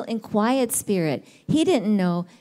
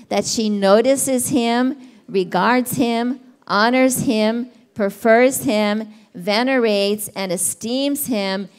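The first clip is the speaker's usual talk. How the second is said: slow scripture reading; slower than usual. Acted. Reads amplified verse aloud.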